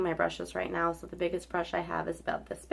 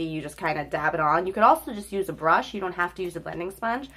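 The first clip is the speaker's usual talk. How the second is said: blocked nose; faster than usual. Real, not acted. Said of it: "Excuse me if I sound like my nose is blocked".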